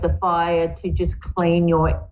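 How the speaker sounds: choking mid-sentence; words squeezed while choking. Real, not acted. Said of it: "I'm choking".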